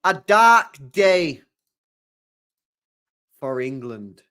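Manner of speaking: slow, loud, grave mock announcement; mock-solemn headline. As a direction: intone it like a doom-laden headline. Mocking the newspaper's headline.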